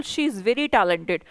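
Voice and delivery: unhurried, each word laid out for the class; slow correct example. Shown as a demonstration. Teacher slowly models the correct compliment for students. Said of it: "Very use करिए".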